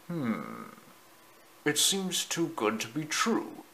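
soft, half-whispered wondering; hushed whisper. A narrator's reading. The great prince nears the tree, hushed whisper. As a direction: murmur it cautiously under the breath. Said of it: "he whispered".

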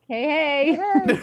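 high, tiny alien squeak, lightly done; Babu Frick voice. Retold or imitated. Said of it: "my Babu Frick".

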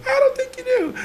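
high squeaky laughing reply; laughing retort. Retold or imitated. To the editor who thinks he knows him, laughing. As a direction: tease him through a laugh.

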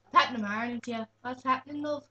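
mock Irish accent. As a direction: try out an Irish greeting. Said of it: "Yeah, Irish".

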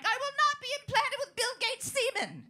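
high, loud outraged refusal; indignant conspiracy voice. Retold or imitated. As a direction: protest like a wild crank. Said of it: "anti-vaxxers are like".

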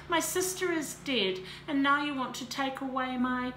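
high, loud anguished outburst; flying at him. A narrator's reading. Sister's death, Melanie lashes out at Tarek, loud high grief. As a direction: hurl it at him, grieving. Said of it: "she flew at him".

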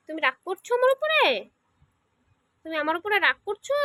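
high, rising sing-song coaxing; coaxing question. Real, not acted. Mother coaxing sulking child. (উঁচু সুরে আদর করে জিজ্ঞেস)

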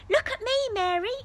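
high, loud excited call; cried excitedly. A narrator's reading. Little brother calling to Mary from the ceiling, excited. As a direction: shout it with delight. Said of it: "he cried excitedly".

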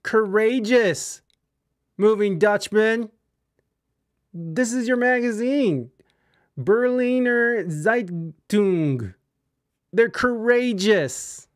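slow, high, loud mocking drawl; mocking a rock star's voice. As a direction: ham up a pompous old rock star. Host mocks the rock star in hammy voice.

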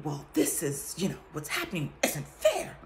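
mild mock indignation building to a laughing peak; half-laughing protest of her own unfairness; self-justifying rant. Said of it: "by saying".

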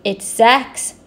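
very slow, smiling answer; pleased reveal. Acted. Zigzag Zebra solving the puzzle, slow smiling reveal. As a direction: savour the answer slowly. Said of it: "she smiled".

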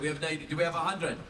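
Scottish-accented auction call. Shown as a demonstration. Actor auctions a call sheet to fans, Scottish accent. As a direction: call the bids with a touch of Scottish. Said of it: "do it in a Scottish accent".

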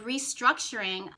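"restructuring" set apart with deliberate emphasis; stress on restructuring. Shown as a demonstration. Astrologer underlining what Saturn does, emphasis on "restructuring". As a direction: lean on the word "restructuring" so it stands out. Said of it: "emphasis on the word restructure".

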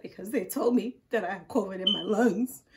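mildly tearful, wavering retelling; imitated crying. Wife telling husband her diagnosis, mock-tearful. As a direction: act out a tearful explanation. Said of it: "and I was crying".

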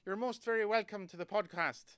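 put-on Irish accent. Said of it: "That was Irish".

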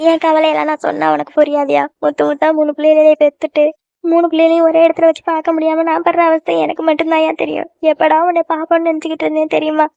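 acted weepy lament; plaintive, lightly tearful complaint. Mother pours out her worries to her son, tearful. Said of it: "ஏம்மா இப்ப அழுகுற?".

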